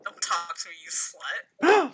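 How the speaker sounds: starts low, jumps up on the last word; acted snub. Friend redoing the line to Jimmy, acted snub.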